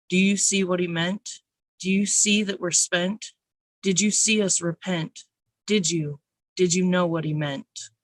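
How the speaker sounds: measured spoken-word poetry reading; poem recital. Acted. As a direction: read it aloud like a poem on stage.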